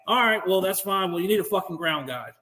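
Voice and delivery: unimpressed, offhand; flat dismissive brush-off. Retold or imitated. Corporal brushing off a convoy at the checkpoint, dismissive. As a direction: toss it off like he's nobody. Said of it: "And I said it just like that".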